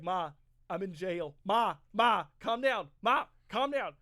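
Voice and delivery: hammed-up panic, begging his mother to calm down; a son on the phone from jail, yelling in a mock panic; mock panicked pleading. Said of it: "so Ralph Macchio calls his mom. He's like".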